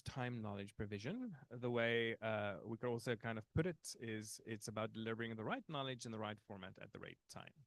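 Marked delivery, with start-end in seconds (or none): 6.0-7.5 a light, quick Irish lilt; slipping into a mild Irish accent. Pretend. Trainer slips into Irish accent, lightly. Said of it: "I switched into an Irish accent there".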